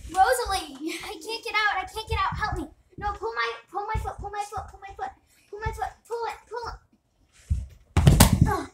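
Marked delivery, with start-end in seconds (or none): 0.1-6.8 high, pleading mock panic. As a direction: playact being stuck and scared. Stuck, begging friend to pull.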